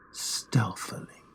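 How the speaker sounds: slow, breathy whisper, all air. A narrator's reading. Narrator whispering how stealthily he opened the lantern. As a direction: breathe the word like a secret.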